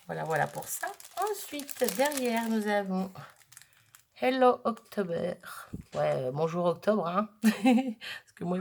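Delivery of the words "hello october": Hello October dit lentement, à la française; anglais avec accent français. Real, not acted. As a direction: lis l'anglais avec ton accent français. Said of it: "mon accent". (petit accent français sur l'anglais)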